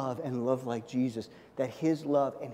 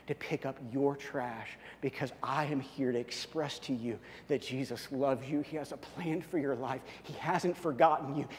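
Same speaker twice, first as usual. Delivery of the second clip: softer, earnest, from the heart; sincere testimony; 5 dB quieter than usual. Retold or imitated. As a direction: tell her quietly why you came. Heartfelt testimony to Irish lady.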